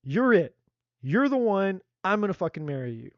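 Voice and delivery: hammed-up smitten proclamation; mock eager declaration. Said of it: "gonna be like".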